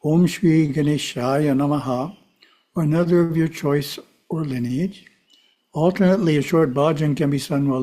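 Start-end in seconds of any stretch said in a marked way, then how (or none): 0.0-2.2 lightly intoned mantra; a hint of chanting the mantra. Shown as a demonstration. Teacher showing how to intone a mantra, lightly chanted. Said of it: "one might intone the mantra".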